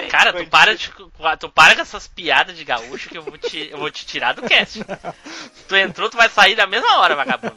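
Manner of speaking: loud mock telling-off; bronca de brincadeira. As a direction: playfully threaten a friend. Ameaça de brincadeira a colega. (bronca fingida e alta)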